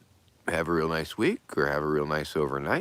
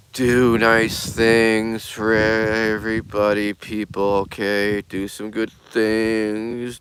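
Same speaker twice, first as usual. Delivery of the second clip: minister mode; 4 semitones higher, 5 dB louder, slower than usual. Acted. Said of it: "U U minister mode".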